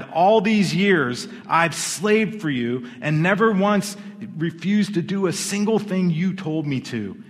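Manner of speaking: loud, resentful complaint; angry older brother. Acted. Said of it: "The older brother was angry".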